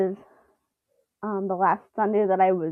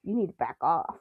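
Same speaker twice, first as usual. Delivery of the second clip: quiet warning; 4 semitones lower, 8 dB quieter than usual. Retold or imitated. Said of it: "She's mimicking Elliot in that moment of".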